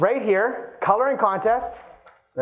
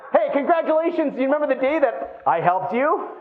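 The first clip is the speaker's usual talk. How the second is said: laughing; 5 semitones higher than usual. Acted. Acted agent's anniversary call.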